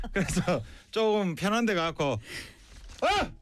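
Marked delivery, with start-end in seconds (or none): 3.0-3.3 short sudden "ah" shout; loud release shout. Shown as a demonstration. Student demonstrates releasing his nerves, short shout. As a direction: let out a quick tension-releasing yell. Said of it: "좀 큰 소리를 내요".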